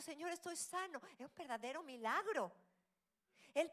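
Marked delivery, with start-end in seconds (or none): 0.0-1.0 joyful shout. Retold or imitated. Healed leper praising the Lord, joyful shout. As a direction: cry it out in joy. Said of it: "empezó a gritar y a alabar".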